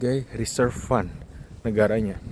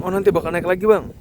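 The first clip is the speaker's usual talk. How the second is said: higher, louder mock-optimistic voice; imitating a hopeful investor; 7 semitones higher, 5 dB louder than usual. Viewer reassuring the vlogger Bitcoin will rise, mock-hopeful higher voice. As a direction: play the naive viewer sure it will bounce back. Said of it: "Mungkin ada yang bilang".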